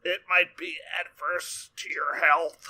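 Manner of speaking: slow, deliberate tough-guy drawl; a slow, lightly done impression; Jonathan Banks voice. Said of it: "is that your Jonathan Banks voice?".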